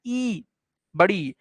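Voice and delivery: teacher modelling the long "ee" of ई; long vowel named. Shown as a demonstration. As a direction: sound out a long ई, then label it बढ़ी. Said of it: "vowel sound देखा, वो क्या आया?".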